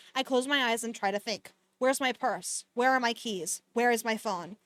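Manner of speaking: even-paced audiobook-style reading; story narration. A narrator's reading. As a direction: read the novel aloud, understated and steady. Reads the novel aloud.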